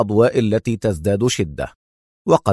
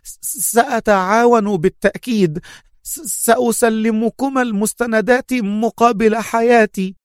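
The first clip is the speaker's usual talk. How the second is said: pleading in terror; 11 semitones higher than usual. A narrator's reading. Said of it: "صاح إيفان بتوسل وذعر".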